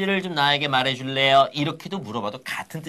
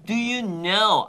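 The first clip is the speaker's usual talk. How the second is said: slow phrase demo; 5 semitones higher, 4 dB louder, much slower than usual. Shown as a demonstration. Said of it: "느낌이 오시죠".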